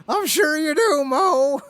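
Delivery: laughing. Real, not acted. Laughing at own Simpsons bit.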